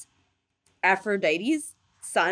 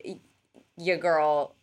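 bro voice; 4 semitones lower than usual. Retold or imitated. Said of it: "he's like".

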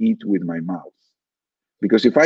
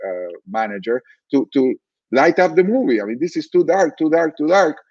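mildly exasperated retold grumbling; retold angry complaint; 2 semitones higher than usual. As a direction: act out an indignant moviegoer, voice lifting toward the end. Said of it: "I was getting really angry".

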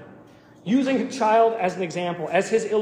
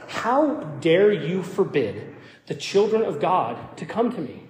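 mock angry Jesus. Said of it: "He, he's mad".

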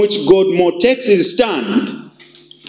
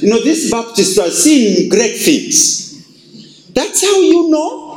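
mock boast; 7 semitones higher than usual. Voices boastful Baptist.

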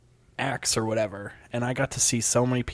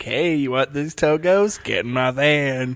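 creepy van lure; 3 dB louder than usual. Acted. Creepy van luring line.

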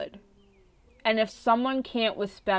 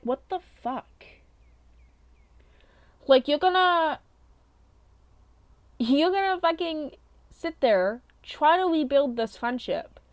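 incredulous disbelief; 5 semitones higher than usual. Retold or imitated. Recalling her silent reaction to the ex-friend's insult, high incredulous disbelief. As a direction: let your voice climb in shocked outrage. Inner outrage at ex-friend's remark.

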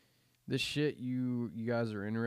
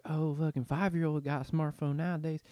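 mock boomer; 5 semitones higher than usual. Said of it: "Yeah, okay, boomer".

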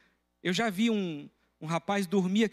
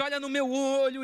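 raised, insistent demand; higher, pressing command; mild retold shout; 6 semitones higher than usual. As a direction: pastor demanding the con man look him in the eye. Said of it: "Eu disse".

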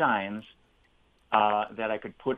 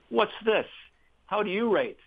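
teasing colleague; 10 semitones higher than usual. Retold or imitated. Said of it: "comes up to him and he says".

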